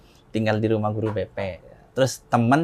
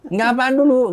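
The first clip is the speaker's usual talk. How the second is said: high, louder mock demand; acted insistent mother; 11 semitones higher, 5 dB louder than usual. Mother demanding son explain himself, high insistent imitation. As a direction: imitate mother pressing for an answer.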